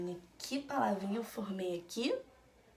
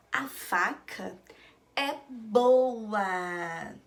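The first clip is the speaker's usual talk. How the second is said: "a faca", pause, then louder "é boa"; reading in two chunks; 6 dB louder, much slower than usual. Shown as a demonstration. Teacher reading back the board's sentence, in two chunks. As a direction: read it back measured, stretching "boa". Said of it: "Aqui está escrito que".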